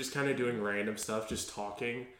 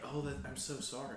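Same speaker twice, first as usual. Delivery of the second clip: mock sympathy; 10 dB quieter than usual. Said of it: "You're like".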